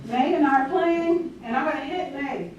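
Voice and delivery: playing three-year-old. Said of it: "I'm three years old".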